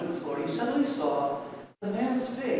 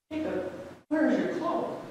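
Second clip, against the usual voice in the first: mother voice; 9 semitones higher than usual. Acted.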